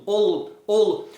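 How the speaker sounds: "ol-" broken off on the L; start of a band's name. Shown as a demonstration. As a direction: say "ol-" and stop short on the tongue tip. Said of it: "imagina que você fala o nome da banda". (ol- cortado no L, como no nome da banda)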